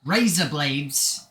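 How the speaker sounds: slow Australian-accented "razor blades". Shown as a demonstration. Streamer showing what the phrase turns into, Australian accent. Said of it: "in an Australian accent".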